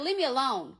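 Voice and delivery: sharp, loud brush-off; fed-up yell down the phone; retold shout. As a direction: shut him down hard. Hanging up on pestering ex.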